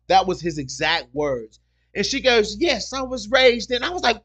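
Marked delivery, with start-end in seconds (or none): 2.6-3.8 high, loud mock British accent. Customer answering about her hidden accent, imitated British accent. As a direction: put on the woman's British accent, drawn out. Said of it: "like somebody flipped the damn switch on".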